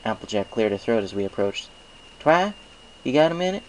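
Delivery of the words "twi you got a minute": high, loud call to get attention. Acted. Applejack calls to a distracted Twilight, loud and high. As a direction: call over to your busy friend.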